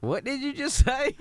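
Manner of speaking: high, loud shocked question. Acted. Coach stunned by the kid's choice of song, high and loud. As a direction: act stunned by the answer.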